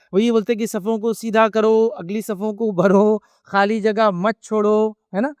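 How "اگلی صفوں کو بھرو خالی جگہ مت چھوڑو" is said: slow, drawn-out call of an imam lining up rows; imam's announcement. Retold or imitated. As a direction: announce it slowly to the congregation like an imam. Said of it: "اعلان ہوتا ہے، ہمارے بعض مسجد میں امام صاحب". (امام کا آہستہ، کھینچ کر اعلان)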